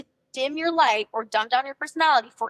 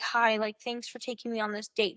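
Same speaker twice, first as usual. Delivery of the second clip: awkward; 4 dB quieter than usual. Pretend. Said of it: "You don't wanna be awkward and be like".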